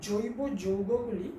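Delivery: each word spelled out slowly for note-taking; slow dictation. Shown as a demonstration. Teacher dictating to the class, slow and deliberate. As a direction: dictate জৈব যৌগগুলি slowly so students can write. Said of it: "আস্তে আস্তে বলছি।".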